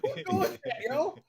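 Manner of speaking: high, laughing disbelief. Real, not acted. Teller amazed at roommate's nerve, laughing incredulously. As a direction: break into laughter while asking. Laughs while retelling retort.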